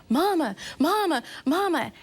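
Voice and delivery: put-on high-pitched little girl calling for mom; imitated toddler. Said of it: "she was like".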